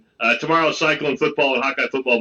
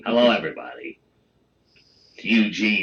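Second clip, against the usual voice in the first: nerdy voice; 8 semitones lower, 3 dB quieter than usual. Pretend. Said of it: "Let's do a show with that voice".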